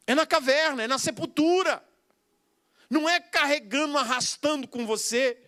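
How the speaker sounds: preacher voicing Abraham about burying Sara, firmly. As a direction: speak as Abraham, firm and sure. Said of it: "O Abraão olha e diz".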